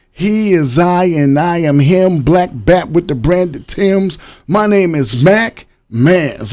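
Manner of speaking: slow, drawn-out hype intro; stretched-out show-opening slogan; signature catchphrase. Real, not acted. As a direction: deliver it like a sing-along signature line, stretching the words. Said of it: "I wanna go my catchphrase".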